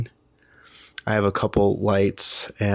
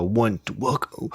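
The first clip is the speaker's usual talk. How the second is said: new age hippie host. Shown as a demonstration. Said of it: "well, not in that voice".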